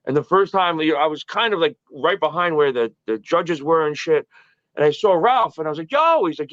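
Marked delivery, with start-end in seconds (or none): 5.9-6.2 higher, brisk call-out; retold greeting shout. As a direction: hail someone you know. Calling out to Ralph.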